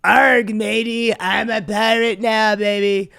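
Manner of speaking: loud hammy pirate growl. Pretend. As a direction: ham up a cartoon pirate. Mocking Trump as pirate.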